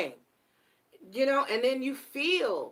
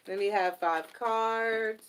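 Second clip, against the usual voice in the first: slow repeat; slower than usual. Real, not acted. Repeating her request to Spirit, slowed down. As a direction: let me have five cards drawn out slowly.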